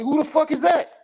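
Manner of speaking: imitating fans who have never heard of her; mock disbelief. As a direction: play it baffled and dismissive. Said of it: "we like".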